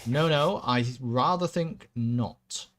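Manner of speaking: slow, smug aristocrat; drawn-out, lordly refusal; regency aristocrat. Acted. Villain refuses.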